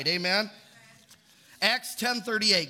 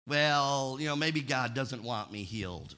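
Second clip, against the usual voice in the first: imitating doubtful believers; 6 semitones lower than usual. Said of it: "you hear people talk about that".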